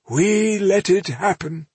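high, slow dismay; appalled. A narrator's reading. Man admits they allowed the slaughter, appalled. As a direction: draw it out, horrified at yourself. Pale listener voices guilt.

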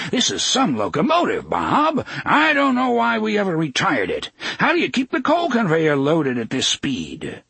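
high, exclaiming over the ride; excited crying out. A narrator's reading. Railway president marvels at the speeding engine, excited cry. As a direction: call out in excitement, pitch climbing. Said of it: "cried Mister Martin".

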